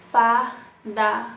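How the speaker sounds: slowly, fardamento split into beats; syllables drawn out. Shown as a demonstration. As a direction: count the beats as you say it. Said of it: "quatro emissões de som". (fardamento escandido)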